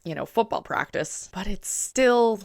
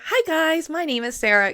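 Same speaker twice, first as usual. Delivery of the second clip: high, louder channel greeting; higher register; 11 semitones higher, 3 dB louder than usual. Retold or imitated. Her old channel intro, imitated high and bright. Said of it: "I would speak more up here".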